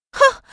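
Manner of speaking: high, sharp scoffing ha; scornful scoff. Acted. Wife scoffs at her husband, sharp and high. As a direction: scoff in disbelief.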